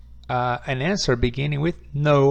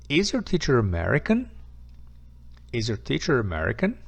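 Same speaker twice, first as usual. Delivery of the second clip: "Is your teacher American?" with the tune going up at the end; yes-no question rising at the end; faster than usual. Shown as a demonstration. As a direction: let the pitch climb on "American". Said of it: "The intonation goes up again".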